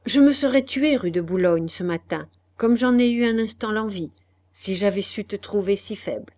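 a touch of harsh command; harsh domination. Acted. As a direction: dominate him coldly. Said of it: "d'un ton rude de domination". (un ton rude et dominateur, discret)

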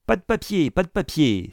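high, urgent objection; alarmed, high-pitched refusal; exclaimed protest. A narrator's reading. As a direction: cry out twice, starting very high. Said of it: "s'écria Isaac Acabut".

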